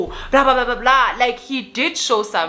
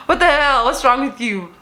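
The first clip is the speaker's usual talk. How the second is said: higher, louder retold "what the hell"; mock outraged yell; 5 semitones higher, 3 dB louder than usual. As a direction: act out an indignant yell at the guy. Retold outburst at the guy.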